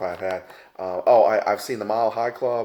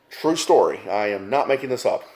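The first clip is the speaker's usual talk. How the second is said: emphatic insistence; 5 dB louder than usual. Real, not acted. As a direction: swear it's true. Insisting it really happened.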